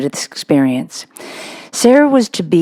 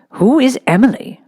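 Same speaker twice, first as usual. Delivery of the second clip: higher, sweetly curious schoolmistress; lightly voiced simpering headmistress; Miss Minchin; 8 semitones higher than usual. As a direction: feign interest for the father.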